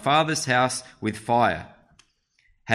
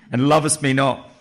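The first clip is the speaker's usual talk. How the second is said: a bit higher and louder, a lightly put-on girly wife's voice; attempted girly voice; 4 semitones higher, 6 dB louder than usual. Samson's wife pleading with Samson, in a modest girly voice. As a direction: play the weeping wife in a self-mocking girly voice. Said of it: "Can't do my very good girly voice".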